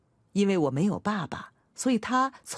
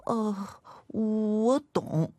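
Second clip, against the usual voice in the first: drawn-out, higher, cowering little answer; timid, hesitant child; 3 semitones higher, much slower than usual. A narrator's reading. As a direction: answer meekly, stretching out each word. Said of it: "我畏畏缩缩地回答".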